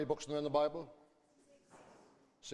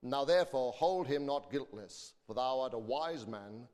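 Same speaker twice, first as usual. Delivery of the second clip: measured, solemn Bible reading; scripture reading. Acted. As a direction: read the King James text aloud to the congregation. Reads scripture aloud.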